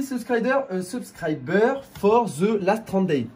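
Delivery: slow, French-accented English words; bad English accent. Real, not acted. Reading Social Blade labels in slow French-accented English. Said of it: "désolé pour mon accent anglais qui est pourri".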